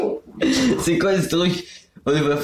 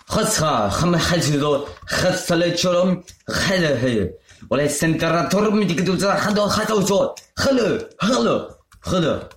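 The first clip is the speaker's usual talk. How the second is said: fake Arabic. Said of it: "faire comme si je parle en arabe".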